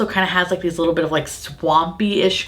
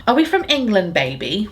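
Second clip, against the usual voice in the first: put-on Dorit accent; 3 semitones higher than usual. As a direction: do a playful hint of Dorit's accent. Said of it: "Sorry, that was my Dorit accent".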